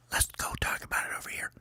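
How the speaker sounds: hushed team huddle whisper; quick conspiratorial whisper. Acted. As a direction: whisper quickly so rivals can't hear. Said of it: "they go over and they whisper".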